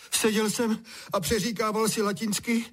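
high, wailing complaint; soaked boy lamenting to his father.

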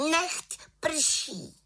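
high, ringing spell call; little witch casting rain, high call. Acted. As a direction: cast it with a cry.

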